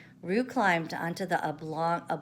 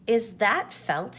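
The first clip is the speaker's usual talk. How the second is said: put-on curious child; 5 semitones higher, 5 dB louder, slower than usual. A narrator's reading. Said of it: "Roo's voice, small child".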